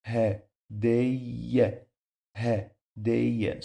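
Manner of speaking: hadayya as ha, then a drawn-out day-ya; doubled y. Shown as a demonstration. Teacher repeating the twice-pronounced letter, doubled y. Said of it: "It's two times pronounce it".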